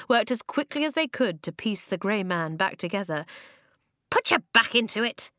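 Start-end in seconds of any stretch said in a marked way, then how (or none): 4.1-5.3 high squeak, urging them on; squeaky order. A narrator's reading. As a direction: squeak it as a brisk command. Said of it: "the rocks squeaked".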